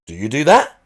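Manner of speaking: "that?" lifts at the end; mild uptalk, raise "that" on the end; rising inflection. Shown as a demonstration. Showing chat a second upspeak example, rising. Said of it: "it goes up at the end".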